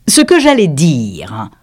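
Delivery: slow, offended whisper. Acted. The offended dodo resuming after the laughter, slow whisper. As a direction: sniff the words out offended. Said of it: "d'un ton offensé".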